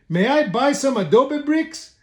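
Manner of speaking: lightly voiced high little pig. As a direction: ask politely in a high piggy voice. Pig Miguel asks politely.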